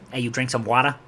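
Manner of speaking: casual New York accent, wada for water. Shown as a demonstration. New Yorker demonstrating his old accent, casual New York accent. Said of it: "I'm from New York originally".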